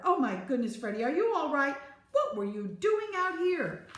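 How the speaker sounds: high, loud fussing, slowing at the end; relieved, aghast teacher. A narrator's reading. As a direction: exclaim over a child just found. Teacher finds missing child.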